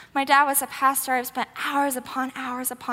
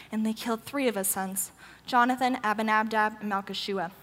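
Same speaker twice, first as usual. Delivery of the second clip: subdued, lower reading voice; scripture reading; 4 semitones lower, 4 dB quieter than usual. A narrator's reading. Preacher reading the battle verses to the congregation, sober scripture reading. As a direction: read the verses soberly, sinking softer at phrase ends.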